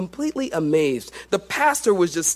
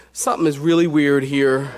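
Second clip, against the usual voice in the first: puzzled laugh; 4 semitones lower, 4 dB louder than usual. Retold or imitated. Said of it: "And I'm like".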